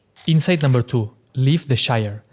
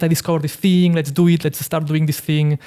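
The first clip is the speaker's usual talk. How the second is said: imitated excited friend; 3 semitones higher than usual. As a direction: lightly act out a friend's eager pitch. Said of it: "just very excited".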